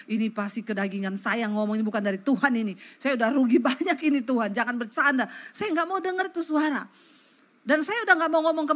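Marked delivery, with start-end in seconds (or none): none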